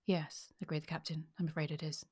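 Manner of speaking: steady, measured reading of a novel; story narration. Acted. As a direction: read the chase scene aloud to the listener. Reads novel scene aloud.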